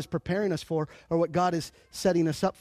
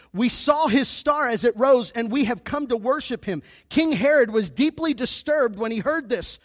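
raised, projected Bible reading; scripture reading; 3 semitones higher than usual. Acted. Preacher reads the wise men story to the church, proclaimed scripture reading. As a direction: read the passage out in a lifted public voice.

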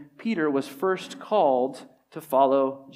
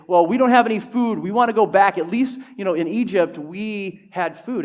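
raised, louder voice of complaint; a mock protest, pitched up at the start; complaining; 4 semitones higher, 6 dB louder than usual. Preacher voices Israelites in the desert wanting Egypt back, complaining. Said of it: "they start complaining and they say".

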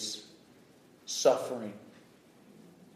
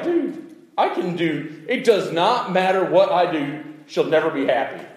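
a hint of a fed-up student, much higher; mock-complain about the teacher; exasperated student; 7 semitones higher, 7 dB louder than usual. Student griping about an unpleasable teacher, mildly mocking. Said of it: "you're like".

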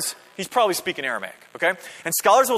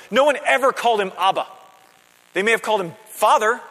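raised, emphatic preacher's voice; higher-pitched, forceful sermon delivery; impassioned preaching; 5 semitones higher, 5 dB louder than usual. Real, not acted. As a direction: drive the point home to the congregation.

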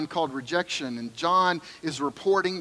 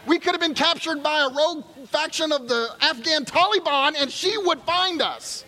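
milk the joke about mom; preacher playing up the mother-in-law joke; building comic excitement; 10 semitones higher than usual. Real, not acted.

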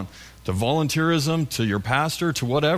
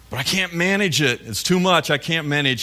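higher strained cry of a worn-out person; pleading believer; 4 semitones higher than usual. Acted. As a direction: whine like someone at the end of their rope. Struggling believer voiced pleading.

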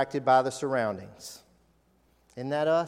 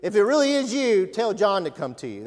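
higher, louder comic plea; mock-fearful self; 5 semitones higher, 5 dB louder than usual. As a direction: play the scared one passing it on. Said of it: "I would say".

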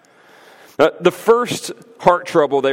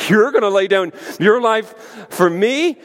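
higher-pitched mock-incredulous question, rising on "me"; sarcastic disbelief; 6 semitones higher than usual. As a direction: throw the claim back with open sarcasm. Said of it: "the sarcasm in that question".

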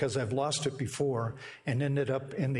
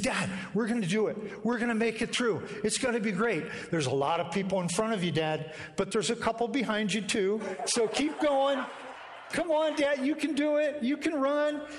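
put-on higher, building boy's voice urging him on; son cheering dad on; 7 semitones higher than usual. Son cheering his father through the last miles, higher and rising. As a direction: cheer him home like an excited kid, rising to the end. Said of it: "He said".

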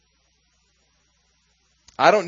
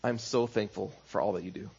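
tender thanks; 7 semitones lower, 9 dB quieter than usual. Retold or imitated. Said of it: "I'd look her in the eyes".

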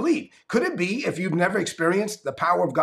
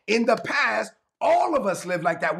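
slightly more deliberate scripture reading; slow reading; 3 semitones higher than usual. Shown as a demonstration. Preacher rereads the verse for the congregation, slow reading. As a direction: read the verse out a little slower. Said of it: "let me read it slow".

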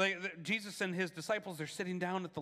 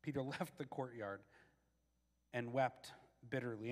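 preacher telling Peter's grief, softer; solemn narration; 7 semitones lower, 8 dB quieter than usual. A narrator's reading. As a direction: let the sadness settle. Repeated softer.

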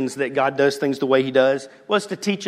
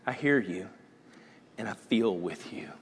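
softer, gentle comfort; tender reassurance; 6 semitones lower, 8 dB quieter than usual. Retold or imitated. God as grace to the crying people, softly. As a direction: soothe them quietly as grace. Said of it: "Grace is he goes".

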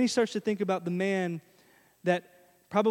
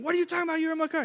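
much higher, disbelieving; as if he can't believe his ears; high-pitched outraged disbelief; incredulous; 9 semitones higher, much faster than usual. Retold or imitated. Robert's incredulous thought at stranger.

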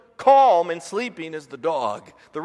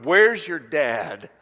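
stern wife; 4 semitones lower, 3 dB louder, much slower than usual. Retold or imitated. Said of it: "the other sound of Tracy's voice".

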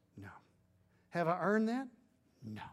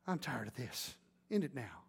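low, soft push to act; urging murmur; 6 semitones lower, 7 dB quieter than usual. Retold or imitated. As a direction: press him quietly to end it. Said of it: "leans over and says".

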